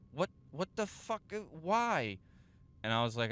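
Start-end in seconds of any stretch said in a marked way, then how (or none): 0.1-2.2 high-pitched mock disbelief; imitated bafflement. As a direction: play the dumbfounded teacher, pitch shooting up. Acts out baffled teacher's reaction.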